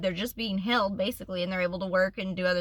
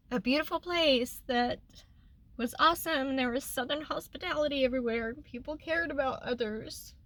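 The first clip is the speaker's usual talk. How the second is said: higher voice, holding back tears; getting emotional; 4 semitones higher than usual. Real, not acted. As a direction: fight tears while remembering fondly. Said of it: "I'm sorry, I'm getting emotional".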